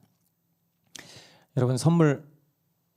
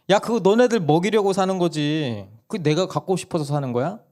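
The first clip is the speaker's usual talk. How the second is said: exasperated mother; 6 semitones higher, 3 dB louder than usual. Retold or imitated. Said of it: "엄마가 황당한 거예요".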